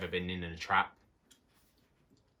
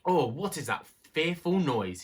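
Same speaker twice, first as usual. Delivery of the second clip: higher, louder, slow alarmed cry; startled; 7 semitones higher, 4 dB louder, slower than usual. A narrator's reading. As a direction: jump at a frightening noise. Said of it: "he started".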